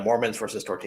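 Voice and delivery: quick, offhand nonchalance; real deadpan-casual, brisk throwaway; nonchalant. Real, not acted. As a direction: toss it off casually, like it's nothing. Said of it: "the way he just said that ... nonchalant".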